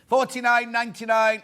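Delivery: loud, high "Forty-nine ninety-nine"; excited price reveal. Real, not acted. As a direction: shout the price like a bargain.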